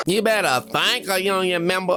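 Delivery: high-pitched parody of a put-on Black Southern accent; mock put-on accent. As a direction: mimic her switched accent, exaggerated and high. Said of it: "she's switching her accent".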